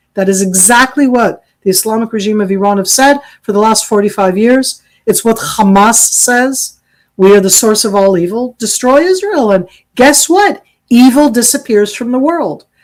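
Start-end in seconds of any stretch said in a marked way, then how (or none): 7.2-12.6 dripping, heavy, mocking sarcasm. Arguing that calling Israel the source of evil echoes Hamas: sarcastic. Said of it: "That was me being sarcastic".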